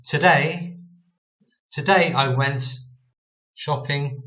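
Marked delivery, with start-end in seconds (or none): 0.0-2.1 "today" with a short dulled first vowel. Shown as a demonstration. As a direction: dull the O in "today", lean on DAY. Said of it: "dull this O sound".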